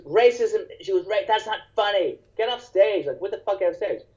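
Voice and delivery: a hint of a high, indignant heckler; a touch of the complaining heckler; mock heckler. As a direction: lightly play the offended woman.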